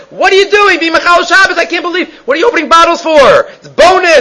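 high, loud scolding outburst; screaming at him. Retold or imitated. Host yelling at the guest for opening juice on Shabbos, high scolding scream. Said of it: "they're screaming at him".

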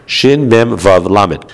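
letters named one by one, very slow; spelled out slowly. Shown as a demonstration. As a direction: spell each letter deliberately. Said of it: "the sofer therefore wrote".

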